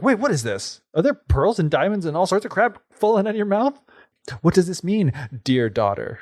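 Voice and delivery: a scheming mother who smells money. Acted. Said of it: "the mother's like".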